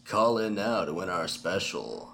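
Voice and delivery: radio contest promo. Pretend. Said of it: "stuck in the radio voice".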